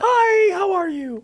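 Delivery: lightly mimicking the co-host's greeting; Caitlin impression. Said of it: "I can do a Caitlin impression".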